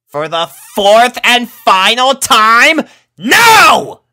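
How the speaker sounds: loud, high, slow, spaced-out shout; losing patience right in her face; furious yell. A narrator's reading. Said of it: "she yelled".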